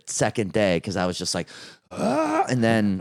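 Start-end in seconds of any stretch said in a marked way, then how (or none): 1.9-2.4 retold frantic gasp. Acting out frantic overtraining moment.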